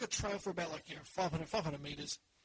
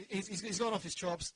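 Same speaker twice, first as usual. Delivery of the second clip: normal talking voice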